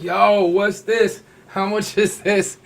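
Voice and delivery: loud, slow, eager "yo, what's this"; hammed-up excited shoppers; rowdy guys grabbing. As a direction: play the pushy customers crowding the rack. Guys grabbing clothes, acted excitedly.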